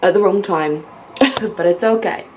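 talking while chewing gum; words round a piece of gum. Real, not acted. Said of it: "put chewing gum in my mouth".

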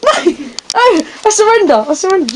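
laughing panicked yell; shouting. Real, not acted. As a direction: yell out when caught. Found by seekers, shouting.

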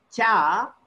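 "cha" with the tongue clear of the teeth; palatal cha. Shown as a demonstration. Teacher contrasting talu with danta, palatal cha. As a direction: draw out "cha" without touching the teeth. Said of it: "the tongue will not touch the teeth".

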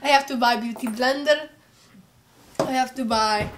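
put-on Arab accent for laughs. Vlogger joking about shopping, mock Arab accent. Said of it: "I should do my Arab accent".

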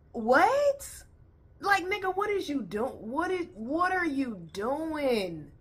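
high disbelieving what, voice shooting up; incredulous outrage. Real, not acted. Reacting to the pastor story, in high incredulous outrage. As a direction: squeal it in total disbelief.

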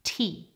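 "T" said on its own as the stressed third part; stressed syllable alone. Shown as a demonstration. Teacher points out the third part, stressed "T". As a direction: isolate the stressed "T". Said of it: "stress moves to the third part".

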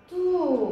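"تو" with the oo held long; long oo syllable. Shown as a demonstration. Teacher sounding out ta with waw, "تو" drawn long. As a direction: stretch "تو" out on its oo. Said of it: "حرف التاء مع مد الواو".

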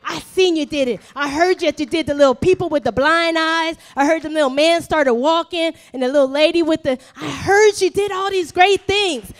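acted urgent pleading, loud and rushing; fervent, breathless listing of miracles; insistent appeal. Acted leper urging Jesus with evidence.

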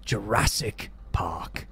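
grand showman, slowing for the name; theme park owner. Acted. Voices theme park owner pitching.

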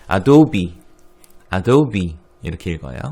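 Adobe said adobi, stress on dob; American Adobe. Shown as a demonstration. 헷갈리는 학생들에게 어도비 발음 시범. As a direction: Adobe ending in bi. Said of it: "어떻게 읽지 모르는 분 많은데".

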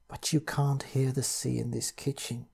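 hushed and scared; barely whispering. Acted. Pritchard telling narrator about the noise, hushed. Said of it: "he said, barely whispering".

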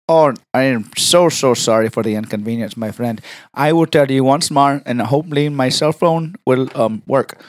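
put-on, over-polite caller; prank caller voice. Apologizing to the receptionist, prank caller voice. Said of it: "Why can you talk like, exactly like that".

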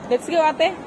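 ordinary delivery

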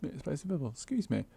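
stifling a yawn. Real, not acted. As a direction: speak through a held-back yawn. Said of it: "Just trying to hold back a yawn".

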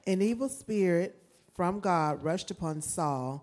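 slightly hurried scripture reading; brisk reading with little weight on the phrases; rushing through. Real, not acted. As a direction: read straight on through the verse. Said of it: "You, you rushing through".

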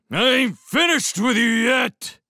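high, slow full shout; calling out. A narrator's reading. Foss to Lewis riding past, shouting after him. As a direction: yell it after someone who is leaving. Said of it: "he called".

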